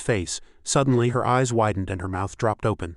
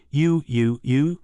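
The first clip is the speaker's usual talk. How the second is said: shocked stammer; 3 semitones higher, much slower than usual. A narrator's reading. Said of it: "shouting in shock".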